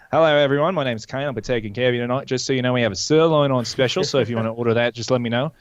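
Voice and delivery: quick Australian waiter patter; put-on Australian server voice; Australian accent. Shown as a demonstration. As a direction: greet diners in an Australian accent. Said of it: "I was doing Australian".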